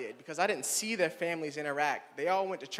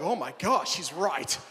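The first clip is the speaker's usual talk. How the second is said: mock audience gasp; 4 dB louder, slower than usual. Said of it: "Some are like".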